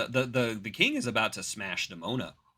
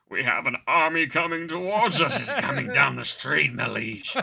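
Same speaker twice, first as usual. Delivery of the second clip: louder, lightly hammed alarmed report; mock herald; 4 dB louder than usual. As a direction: announce the army like a panicky servant. Soldier warns the king.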